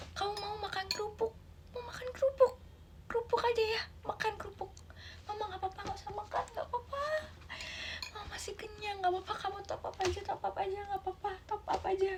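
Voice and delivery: guilt-trip mother. Acted. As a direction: make the kid feel guilty. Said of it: "anaknya kayak berasa bersalah". (ibu lirih membuat anak merasa bersalah)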